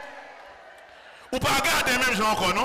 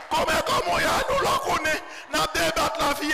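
preaching out loud; 2 semitones higher, faster than usual. Shown as a demonstration. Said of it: "On va parler comme ça".

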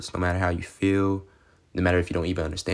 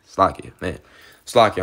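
excited outburst; 7 dB louder than usual. Real, not acted. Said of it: "I'm just excited".

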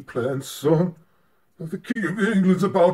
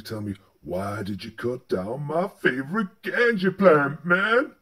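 lower-voiced scolding father; stern old pa; 5 semitones lower than usual. A father scolding his son, lower voice. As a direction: scold the boy like a rural pa.

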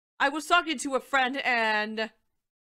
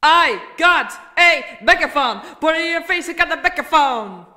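reverb; 3 semitones higher, 11 dB louder than usual. Shown as a demonstration. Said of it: "And here's how it sounds".

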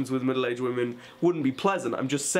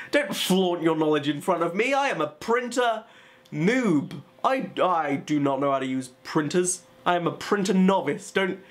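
hammed-up retort, often pitched up; mock indignation; 3 semitones higher, 3 dB louder than usual. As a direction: protest dramatically at being shown up. Hyperbolic retort to printer helper.

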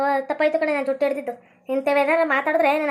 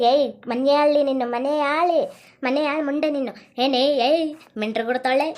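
put-on drunk woman; 2 semitones lower than usual. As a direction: slur out the abuse like a drunk. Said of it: "ಕುಡ್ಕಿ ಬಂದಾಳೆ".

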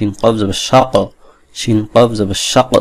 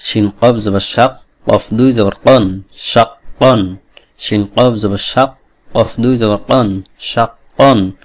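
slow spelling drill; slower than usual. Shown as a demonstration. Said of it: "এখানে দেখুন একটা জিনিস".

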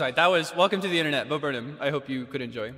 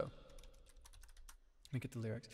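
softly whispered to himself; 2 semitones lower, 20 dB quieter, much slower than usual. Shown as a demonstration. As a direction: whisper it, much softer and slower. Repeats line in a whisper.

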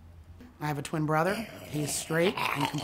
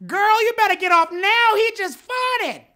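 high, loud sassy warning; sassy lady in elevator; 10 dB louder, slower than usual. Retold or imitated. Woman in the elevator warning a friend, high and sassy. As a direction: warn her off with big sass. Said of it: "Black people will tell you".

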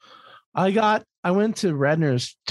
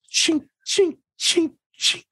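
high mock clinking noises, high and thin; playful high-pitched clink clink sound effect; hammer clinks.

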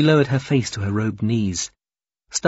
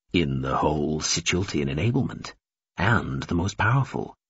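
sighing; 6 semitones lower, 4 dB quieter than usual. A narrator's reading. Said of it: "Himerance sighed".

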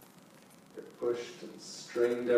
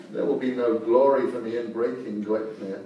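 laughing; 5 dB louder than usual. Acted. Wolf laughing while speaking.

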